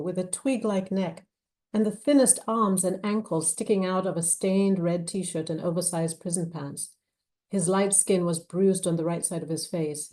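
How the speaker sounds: measured, expressive novel reading; story narration. A narrator's reading. Author reading her thriller to an audience, measured narration. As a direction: read the scene aloud with weight. Reads novel excerpt aloud.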